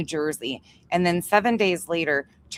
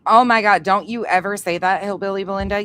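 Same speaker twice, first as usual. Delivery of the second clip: loud, higher burst of real indignation; indignant outburst; 4 semitones higher, 6 dB louder than usual. Real, not acted. Streamer scolding whoever said she sounds like a singer, indignant. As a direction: scold them loudly for daring to say it. Rebuking a comparison of voices.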